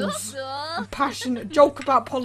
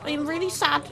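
higher-pitched mock complaint; mock upset; 4 semitones higher than usual. Woman whose treadmill was stolen, mock upset. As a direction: play a mildly wronged game character. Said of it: "she's like".

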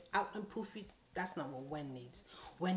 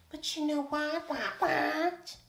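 higher and louder, sassy; loud sass; 10 semitones higher, 10 dB louder, slower than usual. Retold or imitated. Telling the stylist off, loud and sassy. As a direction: punch it out with attitude.

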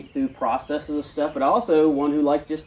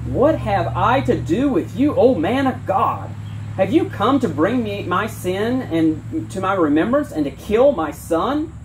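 anguished plea; 5 semitones higher than usual. Acted. Grieving mother accuses prophet.

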